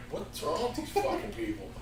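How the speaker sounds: retold drunk bafflement, laughing; laughing disbelief. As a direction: ask it through a laugh. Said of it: "we're like".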